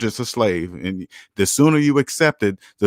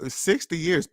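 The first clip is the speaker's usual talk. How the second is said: quiet repeat; 5 semitones higher, 6 dB quieter, slower than usual. Real, not acted.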